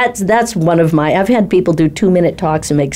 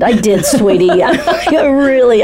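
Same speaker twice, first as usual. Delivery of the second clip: chuckling through the words; amused, laughing fondly; 6 semitones higher, slower than usual. Real, not acted. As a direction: laugh as you admit the truth. Laughing while retelling the call.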